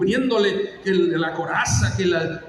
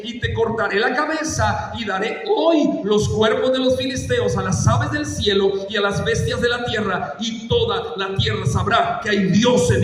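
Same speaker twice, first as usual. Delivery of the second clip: brave proclamation. Acted. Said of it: "Qué valentía de ese niño".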